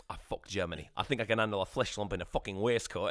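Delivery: imitated northern English film line; northern English accent. Quoting the actor's line from Death of Stalin, northern English accent. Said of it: "Why is he doing a northern accent?".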